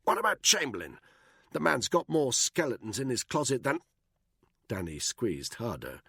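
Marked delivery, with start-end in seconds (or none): 0.0-3.8 a touch higher, strained; running out of air mid-sentence; gasping for breath. A narrator's reading. Buckingham being throttled, gasping out the words. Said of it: "gasped for breath".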